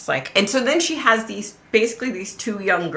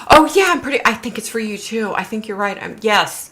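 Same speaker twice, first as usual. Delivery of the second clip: softening, unsure imitation of the psychic; questioning herself. Imitating a psychic telling a girl it's hers, unsure. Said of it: "she's questioning herself at the beginning".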